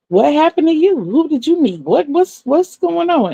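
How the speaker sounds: high, astonished rapid questions; surprised questions. Retold or imitated. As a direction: pile on the questions in disbelief. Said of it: "and I'm like".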